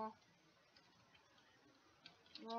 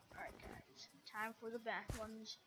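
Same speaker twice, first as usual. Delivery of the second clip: whisper; 7 dB quieter than usual. Real, not acted. Hushes before bad ones.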